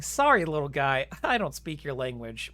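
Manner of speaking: lightly condescending read with a chuckle. Retold or imitated. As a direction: talk down to him, half-laughing. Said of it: "respond in a very condescending way".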